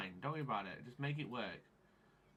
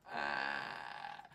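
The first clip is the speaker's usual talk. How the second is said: low, drawn-out groan; frustrated groan; 12 semitones lower, 5 dB quieter than usual. Real, not acted. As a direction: groan low before erupting. Frustrated sound at software.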